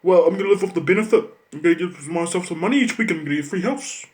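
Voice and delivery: fast, sing-song mock of a schoolkid, "live off the benefit" stretched; mocking lazy kid. Mocking schoolkids who plan to live off welfare, snide and fast. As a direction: parody a kid bragging about welfare, quick and snide. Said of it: "they'll go".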